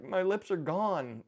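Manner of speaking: high, slow mock wail; mock crying. Dad retelling daughter's laughing-gas panic, mock crying. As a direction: imitate a tearful, drawn-out lament. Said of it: "And she was crying".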